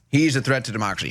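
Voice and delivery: quick mocking repeat of the slogan; mocking parrot. Parroting the Democrats' line, quick and mocking. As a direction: rattle it off like a tired slogan. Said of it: "how do you even respond to that".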